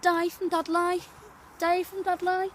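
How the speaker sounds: put-on Dudley accent; comic Dudley introduction in accent. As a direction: do a broad Black Country accent. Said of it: "My name's Di from Dud".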